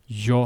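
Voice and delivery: yo said with a soft y glide. Shown as a demonstration. Teacher showing the Spanish y: yo with a soft y. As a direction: glide into yo gently. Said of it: "Yo could be pronounced like this".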